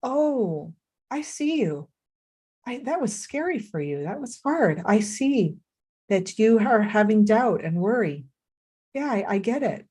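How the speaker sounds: compassionate. Retold or imitated. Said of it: "Kalev could have turned and said".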